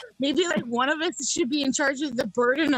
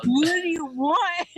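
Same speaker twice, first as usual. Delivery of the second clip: fast food mascot voice; 3 semitones higher, slower than usual. Acted. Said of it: "a fast food restaurant mascot".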